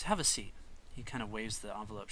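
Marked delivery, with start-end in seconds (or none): 0.0-0.5 higher, louder polite invitation; proper professor. Acted. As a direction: usher him to sit, very proper. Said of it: "she comes over and goes".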